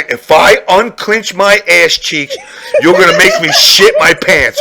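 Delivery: strained, laughing shout; laughing, half-shouted plea; laughing pleading. Acted. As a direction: plead through laughter and panic.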